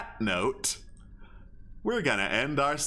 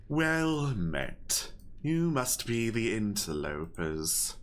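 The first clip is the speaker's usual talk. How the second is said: owl leader voice. Acted. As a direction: speak as an ancient owl lord, deliberate.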